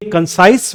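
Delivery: कंसाइज, stressed on साइज; stress on second syllable. Shown as a demonstration. Teacher showing an exception adjective, stress on साइज in कंसाइज. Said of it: "दूसरे syllable पे use".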